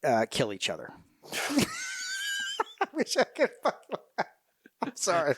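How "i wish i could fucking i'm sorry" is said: laughing break. Real, not acted. Veteran cracking up at a grim joke, laughing hard.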